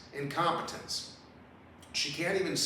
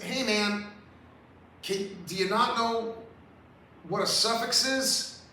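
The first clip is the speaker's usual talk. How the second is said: exasperated; 5 semitones higher than usual. Real, not acted. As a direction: demand it in disbelief. Ranting about suffixes.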